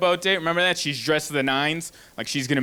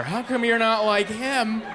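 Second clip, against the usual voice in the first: mock nagging; 5 semitones higher, slower than usual. Imitating women nagging their man.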